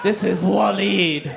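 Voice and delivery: slow, sinister naming of Waleed; ominous. Shown as a demonstration. Comic presenting his old friend as a villain, slow and ominous. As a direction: say Waleed slowly like a villain's name. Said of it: "even his name sounds evil".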